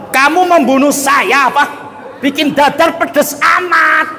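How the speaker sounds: blunt complaint. Acted. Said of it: "ceplok batok, apa adanya".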